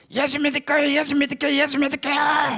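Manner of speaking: high-pitched possessed outcry, chanted without a break; frenzied shouting. Retold or imitated. Newcomer crying out as a demon is exposed, frenzied shouting. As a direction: cry it out frantically on one high note. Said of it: "막 큰 소리를 쳐서 발광하는".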